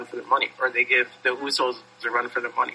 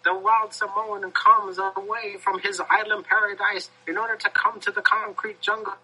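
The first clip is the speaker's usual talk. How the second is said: frantic mock sports commentary; 7 semitones higher than usual. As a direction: boom it like a 1908 sportscaster. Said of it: "in the voice of a nineteen oh eight sportscaster".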